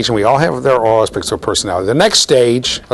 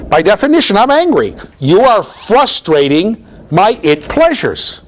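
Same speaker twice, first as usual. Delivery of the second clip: put-on high, slow, loud sulky child; mock angry toddler; 10 semitones higher, 3 dB louder, slower than usual. Lecturer acting out the angry toilet-training toddler, loud and high. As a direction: drag out the complaint like a furious little kid. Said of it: "this results in anger".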